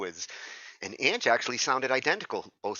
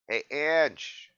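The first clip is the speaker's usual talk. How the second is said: louder call across the room; 6 semitones higher, 5 dB louder than usual. Real, not acted. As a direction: call out to get her attention. Calling out to absent person.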